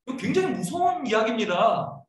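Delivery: normal talking voice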